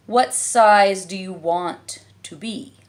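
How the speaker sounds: slow, lazy caterpillar verdict. A narrator's reading. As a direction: drag the words out disapprovingly. Caterpillar asks.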